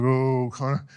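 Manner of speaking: low-spirited, mournful "oh"; mock somber. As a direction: put on a solemn groan lightly. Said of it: "this somber, like".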